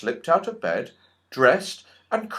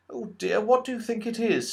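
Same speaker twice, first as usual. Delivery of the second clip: alarmed; 10 semitones higher than usual. A narrator's reading.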